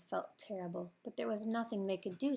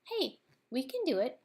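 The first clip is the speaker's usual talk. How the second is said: higher, louder eager cry; excited exclamation; 6 semitones higher, 5 dB louder than usual. A narrator's reading. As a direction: burst out with a bright idea.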